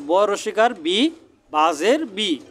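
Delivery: deliberate spelling ending on "বি"; teacher carefully sounding out "বি"; short-i demonstration. Shown as a demonstration. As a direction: show "বি" with a clear ee vowel. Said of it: "জেরের উচ্চারণ হ্রস্ব ইকারের উচ্চারণ হয়".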